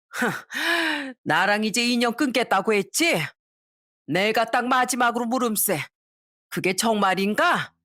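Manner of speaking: lightly voiced old mother-in-law, offended; mild mock outrage at the son-in-law; a touch of a drunk mother-in-law demanding answers; indignant mother-in-law.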